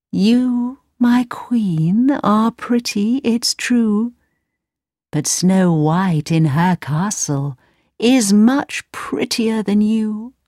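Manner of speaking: whispery high magic mirror. Acted. The mirror answers.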